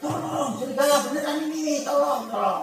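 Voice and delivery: high-pitched mock panic, rushed; retold panicked cry. Boy begs villagers now the wolf is real, high mock panic. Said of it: "Dia teriak-teriak".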